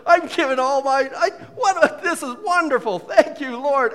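high, loud, giddy laughing delight; breaking into laughter while exclaiming. Acted. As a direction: act out overjoyed giving, laughing through it. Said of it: "laugh out loud generosity giving".

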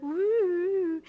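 high, short joyful whoop; sudden high woo; preacher's whoop. Real, not acted. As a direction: let out a burst of a cry. Preacher's exclamation mid-sermon.

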